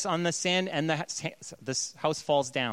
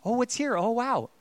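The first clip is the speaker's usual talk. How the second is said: mock wonder; 6 semitones higher than usual. Acting excited Street View clicking.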